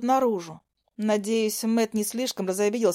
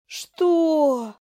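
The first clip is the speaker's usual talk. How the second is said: higher, louder sudden what; startled; 6 semitones higher, 4 dB louder than usual. A narrator's reading. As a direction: jolt in surprise. Startled by chains.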